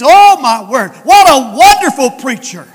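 Jesus. Acted. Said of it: "Jesus stood up in heaven and says".

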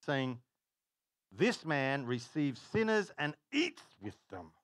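measured Bible reading; a light formal reading voice; scripture reading. Acted. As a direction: read the verse with weight. Reads scripture aloud.

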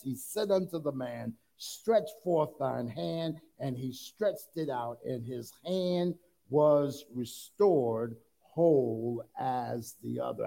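deliberate Bible reading, drawing out key words; scripture reading. Acted. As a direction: let the verse land slowly on its final phrases. Rereads the verse with weight.

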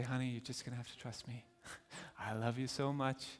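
put-on soft, hushed reassurance to a baby; calm a screaming child gently; soft tender coaxing; soothing parent.

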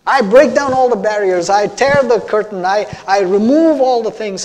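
God speaking. Acted. God tells the congregation He will make them holy, impassioned. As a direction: build to a forceful, emphatic declaration as God. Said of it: "He's saying".

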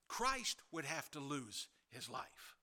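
ordinary delivery

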